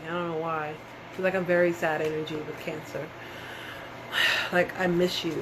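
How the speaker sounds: quiet, heavy, sad voice; close to tears. Real, not acted. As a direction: speak as if tears are coming. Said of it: "I'm about to cry".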